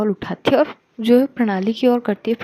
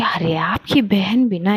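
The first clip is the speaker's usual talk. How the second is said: hushed whisper; slower than usual. Acted. Simi whispering gossip to Kuhu about the sister. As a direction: whisper it behind the sister's back.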